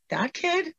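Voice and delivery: put-on high, disbelieving "that kid?"; incredulous. Telling how she reacted to her aunt, incredulous. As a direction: pitch it up in disbelief. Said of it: "And I was like".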